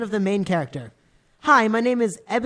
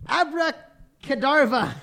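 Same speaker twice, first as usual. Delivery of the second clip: slow, high, loud spell cry through laughter; hammed-up wizard incantation, cracking up; yelled spell; 7 semitones higher, 5 dB louder, slower than usual. Vampire casting a spell at Snape and Lupin, laughing. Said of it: "He yelled at Snape and Lupin".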